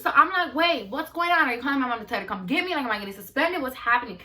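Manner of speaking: mock-panicked string of questions; wait, what is going on; alarmed questioning. Retelling her panicked questioning of staff.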